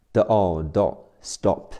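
"stop" with the t sounded like d; voiced t after s. Shown as a demonstration. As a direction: say "stop" as s-dop, t softened to d. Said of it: "这里的t符合了爆破音浊化的原则，所以发的".

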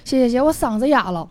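hoarse, worn-out voice; talking through a hoarse throat. Real, not acted.

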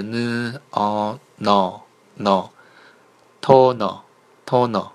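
slow n, o, joined as no, then the whole toner; teacher slowly assembling toner for learners; syllable blending demo. Shown as a demonstration. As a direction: sound out "n o no" and build up to Korean toner. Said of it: "第二字是".

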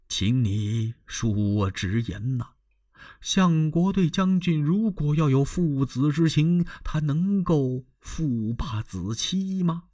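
put-on slow, earnest counsel of an old court official; old minister Wang Yun. Old minister gently persuading the general, slow and earnest. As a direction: lean in and reason with him slowly.

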